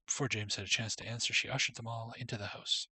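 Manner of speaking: steady storybook reading voice; story narration. Acted. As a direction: read it like a storybook. Reads game story text.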